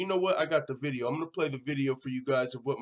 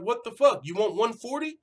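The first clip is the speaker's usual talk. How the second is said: incredulous; 7 semitones higher, 4 dB louder than usual. Retold or imitated. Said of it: "Jimmy Rivera's like".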